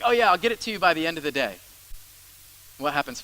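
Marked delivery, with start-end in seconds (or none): 0.0-1.6 breezy promise. Retold or imitated. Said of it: "where you're like".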